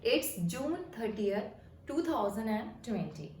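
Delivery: very slow, word by word; American English date read out slowly. Shown as a demonstration. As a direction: spell out each part slowly for learners. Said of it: "date को बोलना होगा तो कैसे बोलेंगे".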